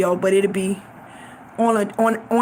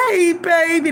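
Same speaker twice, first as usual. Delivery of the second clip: higher, lightly voiced mama greeting; imitating mama; 4 semitones higher than usual. Mama greeting her favored daughter, higher-pitched greeting. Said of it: "That's how she always talked to me".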